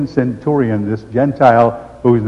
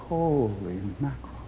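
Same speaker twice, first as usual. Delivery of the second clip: much softer, awed exclamation; stunned hush; 2 semitones lower, 13 dB quieter than usual. Real, not acted. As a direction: breathe it out in amazement. Stunned after closing Bible.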